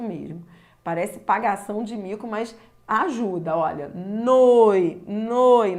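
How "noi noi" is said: "Noi, noi" drawn out, loud o tapering into i; strong-to-weak demo. Shown as a demonstration. Teacher urging students to copy despite looking silly, exaggerated "Noi, noi" from strong to weak. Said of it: "indo do som forte para o som fraco".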